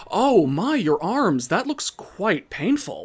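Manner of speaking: high, sing-song fake sympathy; mock concern. Sam taunting Peg about her arms, mock concern. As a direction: feign shock sweetly to taunt her. Rival feigns concern at injuries.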